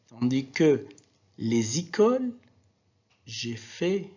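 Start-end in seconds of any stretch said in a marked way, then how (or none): 1.4-2.3 Z linking "les écoles"; liaison. Shown as a demonstration. Teacher contrasting with no-liaison words, Z linked in "les écoles". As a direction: run "les écoles" together with a Z before "écoles". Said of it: "la liaison".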